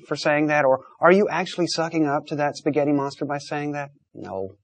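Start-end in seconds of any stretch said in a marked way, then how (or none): none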